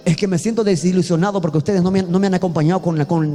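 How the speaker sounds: quick, complaining reproach; a fast, mildly grumbling complaint. Shown as a demonstration. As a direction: rattle it off as a grievance. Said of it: "Si lo digo más o menos en ese tono, es una queja".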